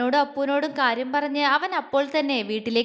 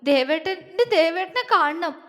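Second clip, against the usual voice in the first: high, sobbing plea; raised pitch, aching with need; acted tearful longing; 4 semitones higher than usual. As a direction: plead tearfully to see the loved one. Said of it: "അവൾ തേങ്ങിപ്പോയി".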